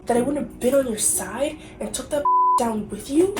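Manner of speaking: lightly acted hurt boyfriend reading the excerpt; dramatic reenactment. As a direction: read it like a wounded lover, half-hammed. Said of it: "dramatically reenact it".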